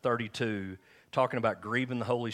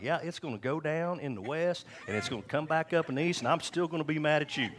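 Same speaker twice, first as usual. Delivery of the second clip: higher-pitched, defiant comeback; raised pitch, hammed-up obstinacy; mock stubborn retort; 6 semitones higher than usual. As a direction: act out a sulking husband's comeback. Retold stubborn retort to wife.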